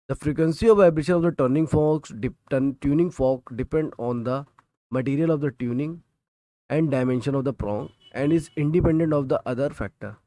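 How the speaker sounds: reading the textbook line word by word, slowly; slow, deliberate dictation for students to copy. Shown as a demonstration. Teacher dictating a textbook definition to students, slowly.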